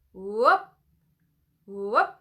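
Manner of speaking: loud rising whoop. Shown as a demonstration. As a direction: whoop from the belly, sliding up. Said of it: "Try it again".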